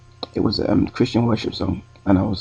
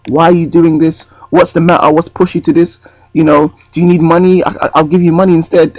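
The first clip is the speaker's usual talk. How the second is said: concerned urgent questions; 5 semitones higher, 5 dB louder than usual. Retold or imitated. Imagined urgent questions to woman.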